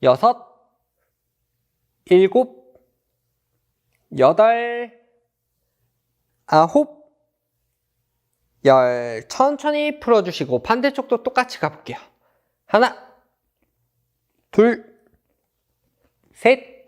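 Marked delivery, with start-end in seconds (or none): 0.0-9.3 loud counting reps; barking gym coach. Acted. Coach counting dynamic stretch. 12.7-16.9 loud counting reps; barking gym coach. Acted. Coach counting dynamic stretch.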